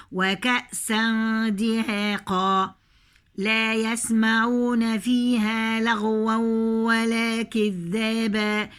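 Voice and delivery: slow measured tajweed chant; slow Quranic recitation. Shown as a demonstration. Recites verse.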